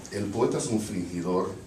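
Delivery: poem line in Portuñol-accented Spanish. Shown as a demonstration. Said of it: "with a Portuñol accent".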